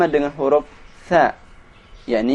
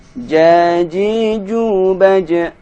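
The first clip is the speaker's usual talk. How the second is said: slow recitation drill; 2 semitones higher, much slower than usual. Shown as a demonstration. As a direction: chant each syllable clearly and slowly. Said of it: "drill syllables slowly".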